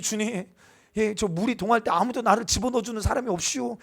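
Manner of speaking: a light Chungcheong dialect whine. Pretend. 충청도 사투리로 투덜대듯. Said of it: "충청도 사투리로 하면".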